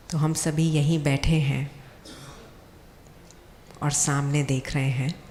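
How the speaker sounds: calm guided visualization with long pauses; guided meditation. Acted. Speaker guides seated doctors on an imagined journey home, guided meditation. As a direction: lead them gently, phrase by phrase, leaving long pauses.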